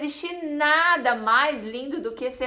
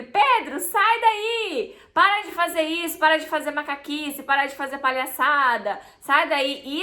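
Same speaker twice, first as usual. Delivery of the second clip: scolding mother; 2 semitones higher than usual. Shown as a demonstration. Mother scolding her son Pedro for jumping on the sofa, sharp scold. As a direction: snap at the child to get off the sofa. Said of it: "se eu falar assim com ele".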